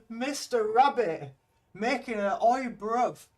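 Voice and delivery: put-on loud, slow London geezer accent; mock London "oi, bruv"; rough london slang. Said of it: "Be careful making accent comments".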